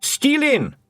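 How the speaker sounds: high, loud crowd shout; Feegles shout. A narrator's reading. Blue men shout their answer to the twiddler, loud and high. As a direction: bellow it proudly as a clan. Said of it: "shouted the blue men".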